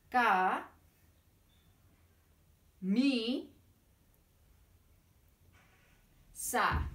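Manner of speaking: Ca, mi, sa spaced apart, one beat each; teacher claps out syllables with the puppet, Ca mi sa; clapped syllables. Shown as a demonstration. Ca, mi, sa clapped one by one. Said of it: "De nuevo".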